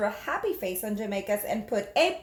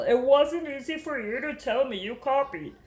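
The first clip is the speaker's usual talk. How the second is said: gentle low teacher. Acted. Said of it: "Missus Duval's voice was low, almost a whisper".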